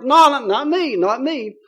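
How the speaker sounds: imitated indignant denial, high and loud at first; hammed-up insistent refusal; mock protest. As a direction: blurt a retold protest, then settle. Retold denial by a hotheaded disciple.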